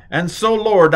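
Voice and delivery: high, loud mock preacher's call; fervent prayer voice. Teacher imitating someone praying to explain a particle, hammed-up fervour. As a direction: call on the Lord with exaggerated fervour.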